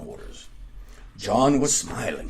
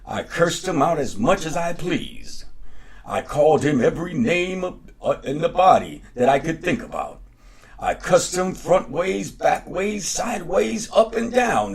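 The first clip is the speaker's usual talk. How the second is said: rising higher and louder as he brags; boastful bragging; 7 semitones higher, 4 dB louder than usual. A narrator's reading. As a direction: show off to George, climbing up with each phrase. John boasting to George.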